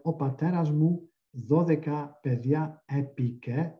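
"O pateras mu dodeka pedia epike" in Greek vowels, "dodeka" said fully; medieval Greek reading. Shown as a demonstration. Linguist reconstructs the line in medieval Greek, careful Greek pronunciation. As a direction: read it as medieval Greek, all vowels clear. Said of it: "you would get something like".

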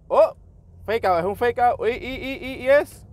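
real thrill at a sudden game twist; excited reaction. Real, not acted. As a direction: get worked up, stammering as it happens. Reacts to a fake out.

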